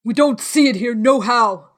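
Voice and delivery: calling back down. A narrator's reading. Man upstairs answering the beggar, loud call. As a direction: call it out to the street.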